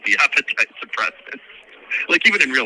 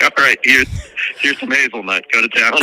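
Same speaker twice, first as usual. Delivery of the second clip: playful shout; 4 semitones higher, 5 dB louder than usual. Retold or imitated. Acts out handing over hazelnut coffee.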